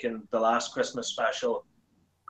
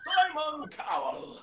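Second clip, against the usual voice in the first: very slow, high announcer introduction; Peter Dixon; 13 semitones higher, much slower than usual. Acted. Introducing the judge on the talent show, drawn-out announcer voice. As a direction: stretch the name out like a TV voice-over. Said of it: "Yeah, you do sound like him".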